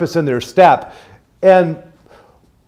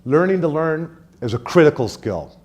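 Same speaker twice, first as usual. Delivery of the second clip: "critical" picked out with firm stress; emphasis on critical; 4 dB quieter than usual. Shown as a demonstration. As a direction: lean on the word "critical" to make the point. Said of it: "Emphasis on the word critical".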